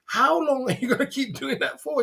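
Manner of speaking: high, fast, disbelieving squeal; mock them for keeping at it; incredulous mockery. Real, not acted. Mocking haters who keep going.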